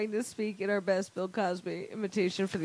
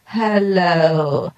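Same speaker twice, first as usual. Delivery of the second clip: Moog organ effect; 6 semitones lower, 11 dB louder, much slower than usual. Shown as a demonstration. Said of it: "sound like you're a Moog organ".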